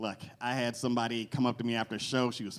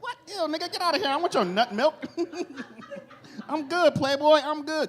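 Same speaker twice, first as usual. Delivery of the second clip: mock disgusted refusal; 3 dB louder than usual. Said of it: "You're like".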